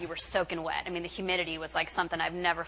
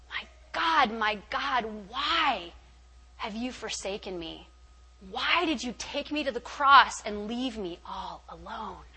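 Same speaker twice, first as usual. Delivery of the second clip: Jesus; slower than usual. Retold or imitated. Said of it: "Jesus hanging on the cross saying".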